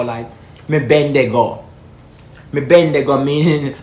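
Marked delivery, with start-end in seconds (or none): 0.7-1.6 broad country Jamaican patois. Shown as a demonstration. Vlogger shows how country parishes talk, in Jamaican patois. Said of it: "real horrible patois". 2.5-3.2 broad country Jamaican patois. Shown as a demonstration. Vlogger shows how country parishes talk, in Jamaican patois. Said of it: "real horrible patois".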